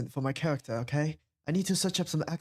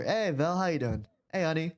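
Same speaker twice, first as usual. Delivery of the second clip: put-on Southern accent. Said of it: "talk like this for a little bit longer".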